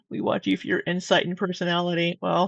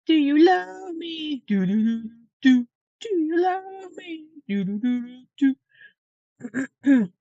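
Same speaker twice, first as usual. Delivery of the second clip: dramatic reading; 8 semitones higher than usual. Pretend. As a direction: overact the desperate text. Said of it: "We should do a dramatic reading".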